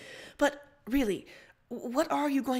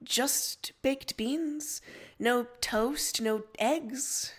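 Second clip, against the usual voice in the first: incredulous; 2 semitones higher, much slower than usual. Acted. Rose hears Dave ate only beans.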